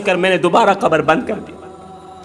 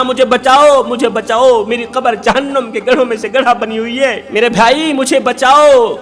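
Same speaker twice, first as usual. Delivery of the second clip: raised, anguished plea from the grave; tormented brother crying out; 4 semitones higher than usual. Acted. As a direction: cry for rescue from the fire. Dead brother cries from grave. (قبر سے دردناک پکار)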